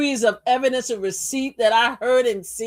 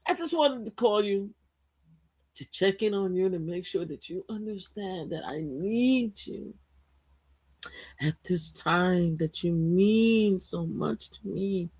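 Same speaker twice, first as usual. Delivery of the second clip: mock tender sweet talk; 2 semitones lower than usual. A rapper softly sweet-talking.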